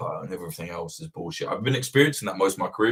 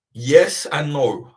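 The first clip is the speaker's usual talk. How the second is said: drawn-out answer; 6 semitones higher, 6 dB louder, much slower than usual. Real, not acted. Answering a viewer question.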